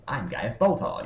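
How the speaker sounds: imitated BBC English; Gaius Baltar. Podcaster mimics the character introducing himself, BBC English. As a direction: put on a proper BBC English accent. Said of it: "perceived B B C English".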